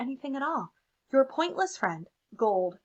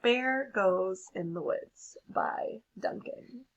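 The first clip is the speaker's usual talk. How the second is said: slow hushed whisper; reading the drawing's title in a whisper; slower than usual. Acted.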